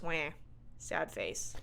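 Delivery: small low mock whimper; mock sad. Host reacts to a character's death, mock sad. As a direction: pout it quietly, half-hearted grief.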